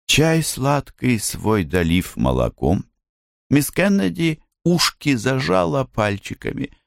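plain reading voice

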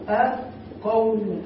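أقوم drawn out slowly as a model form; a slow teacher's model of أقوم; slow demo. Shown as a demonstration. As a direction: spell out أقوم slowly for the class. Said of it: "نقول هكذا".

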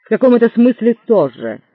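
menacing. Acted. Threatening husband.

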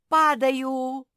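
громкий высокий крик при падении; крикни, срываясь с дерева. A narrator's reading. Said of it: "крикнула Мафи". (громкий испуганный крик)

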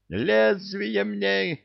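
very high, very slow shout. Acted. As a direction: bellow for the blade. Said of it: "кричал военный чин".

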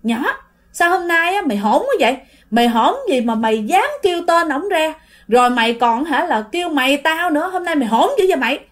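mildly cross acted scolding; a touch of an offended elder; angry aunt. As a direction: take the neighbour to task, indignant. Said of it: "Thì lúc đó là mợ Tám tức".

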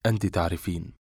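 understated weary indifference; dismissive, bored. A narrator's reading. Man brushing off her question, wearily dismissive. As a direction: shrug it off, bored. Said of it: "فقال باستهانة وضجر".

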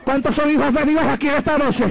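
lifted call to the crowd; preacher asking the crowd; rousing call. Acted. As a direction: call out to the congregation. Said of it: "repeated call".

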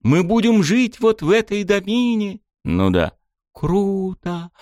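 put-on high, thrilled girl's voice; excited girl. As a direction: gush like an excited kid. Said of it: "возбуждённо листала".

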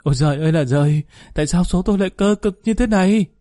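high, loud wailing cry to the heavens; wailing lament. A narrator's reading. Wife wails about her hard fate to her husband, high loud wailing. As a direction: wail it out, voice climbing high and loud. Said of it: "Bà Lê bù lu bù loa lên gào khóc".

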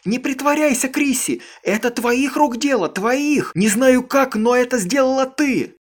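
high, loud raging shout; shrieking in rage; furious accusation. A narrator's reading. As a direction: hurl the blame at her.

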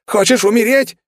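high, loud stunned outcry; astonished yell. A narrator's reading. Demon cries out at the reckless hero, astonished. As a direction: cry out in disbelief. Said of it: "изумлённо выкрикнул он".

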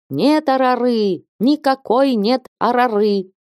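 high, slow shouted cry; frantic cry. A narrator's reading. Ilaria still shouting at the room, high drawn cry. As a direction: keep crying it out, drawn and high. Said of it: "по-прежнему кричала".

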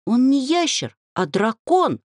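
huffy offended retort. A narrator's reading. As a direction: stress the word ящер, falling. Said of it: "оскорбилась подруга".

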